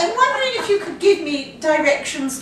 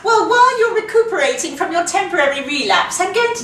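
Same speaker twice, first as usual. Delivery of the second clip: put-on posh British accent. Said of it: "posh voice".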